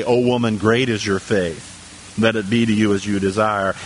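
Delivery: low, measured Bible reading; scripture reading. Real, not acted. Preacher reading the verse to the congregation, low scripture reading.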